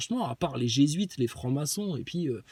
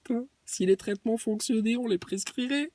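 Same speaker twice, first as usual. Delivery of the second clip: honeyed voice; 4 semitones higher, 4 dB quieter than usual. Retold or imitated. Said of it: "la petite voix mielleuse qu'il prend".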